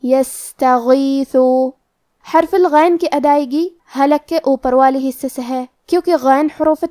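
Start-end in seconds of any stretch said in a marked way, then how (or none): 0.0-1.4 یستغیث very slow, sin with audible breath, heavy غین; breathy sin recitation. Shown as a demonstration. Teacher demonstrating یستغیث, slow recitation. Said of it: "تو ہم یہ کلمہ کو ایسے پڑھیں گے".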